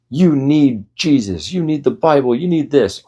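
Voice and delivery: high, slow mock preacher voice; pushy believer in your face; mock preachy pushing. Mocking street preacher, high and pushy. Pushy religious people, mocked.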